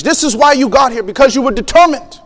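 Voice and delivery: lightly imitated general's address; deliberate phrases, a pause before each virtue; rousing speech. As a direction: address the troops with measured conviction. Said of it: "he gives you this speech".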